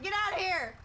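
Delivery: high, loud replay of the shout; retold yell. Retelling how she shouted at the salesman. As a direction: yell it like you mean it. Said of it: "I was yelling at the dogs".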